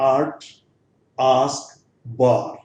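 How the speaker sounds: आर्ट, आस्क, बार with a drawn-out aa; long aa demo. Shown as a demonstration. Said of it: "यहां पर long sound है।".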